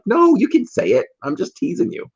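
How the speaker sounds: high, bright hurry to reassure; hammed-up eager take-back; eager backpedal. Backpedalling to the friend.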